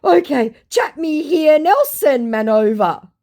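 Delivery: high, loud put-on voice; mock scammer voice. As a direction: brush it off breezily. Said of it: "he goes".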